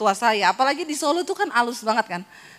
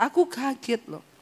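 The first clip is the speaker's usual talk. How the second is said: quieter mock complaint; softer imitation of husband; 5 dB quieter than usual. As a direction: echo his gentle grumble. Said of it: "Ini enggak".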